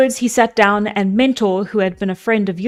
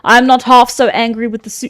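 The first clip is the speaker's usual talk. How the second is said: a lightly voiced stern old speaker; old man voice. Mentor rebukes the men of Ithaca, lightly voiced elder. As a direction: scold the assembly like an elder. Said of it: "I'm losing the voice".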